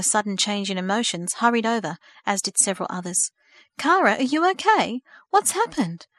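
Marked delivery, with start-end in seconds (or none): 3.8-6.1 higher, louder worried asking; deep concern. Acted. Aunt hurries to her sobbing sister with concern. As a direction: rush in, worried. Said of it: "she asked with deep concern".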